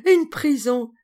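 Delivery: high, loud mocking laugh into the words. A narrator's reading. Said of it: "Georges riant".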